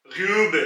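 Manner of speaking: ग्यूब with a rounded, flattened ऊ; umlaut form. Shown as a demonstration. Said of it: "आवाज थोड़ी सी flat हो जाएगी". (ग्यूब में गोल होंठों वाली ऊ)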